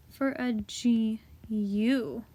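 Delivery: slow whispered spelling. Real, not acted. Teacher whispers the letters to the class.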